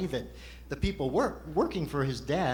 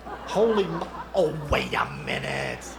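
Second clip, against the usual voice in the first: surprised exclamation; 4 dB louder, slower than usual. Real, not acted. Ventriloquist catches the joke.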